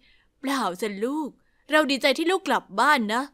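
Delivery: hide the hurt and gently reassure; hurt but reassuring mother. Acted. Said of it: "รีบตอบกลับไป".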